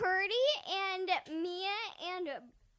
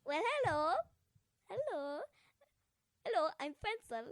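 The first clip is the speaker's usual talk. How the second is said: Swedish chef voice; 3 semitones higher than usual. Pretend. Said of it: "almost like a Swedish chef type of voice".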